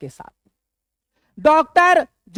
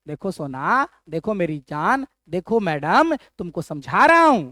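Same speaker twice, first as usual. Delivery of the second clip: coaxing husband; 4 semitones lower than usual. Retold or imitated. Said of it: "समझा रहा है अपनी पत्नी को".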